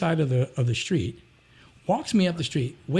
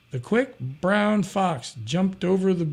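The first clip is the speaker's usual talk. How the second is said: slow reading; 2 semitones higher, slower than usual. Shown as a demonstration. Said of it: "So I said".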